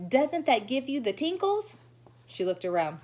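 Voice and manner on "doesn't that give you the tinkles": put-on high, bright gushing little girl; gushing showy girl. Lucille gushing to the children, high and showy. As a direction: gush to the whole class.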